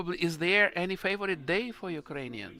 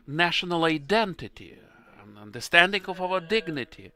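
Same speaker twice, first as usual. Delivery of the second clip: louder and faster, impassioned; emotional; 7 dB louder than usual. Real, not acted. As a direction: let the feeling carry you away as you speak. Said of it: "sorry, I'm too emotional".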